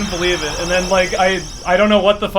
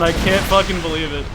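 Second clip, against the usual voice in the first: ordinary talk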